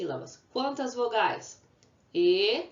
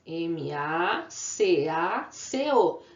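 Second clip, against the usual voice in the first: slow letter-by-letter spelling, grouped in pairs; name each letter slowly for the class; teacher spelling a word aloud; 2 semitones lower, much slower than usual. Shown as a demonstration. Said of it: "Como se escreve a palavra macaco?".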